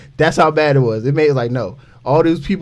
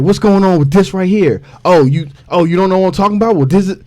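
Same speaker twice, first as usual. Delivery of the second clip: mock New York accent; 5 semitones higher, 5 dB louder than usual. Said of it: "his little New Yorker accent".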